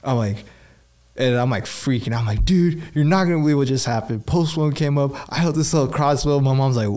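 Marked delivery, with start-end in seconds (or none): 2.4-6.4 excited. Real, not acted. Calling mom, freaking out.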